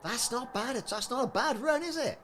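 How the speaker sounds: high-pitched, chuffed little voice; pleased high squeak. Real, not acted. Player pleased with a profitable run, squeaky high voice. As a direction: pitch it right up, pleased with the haul.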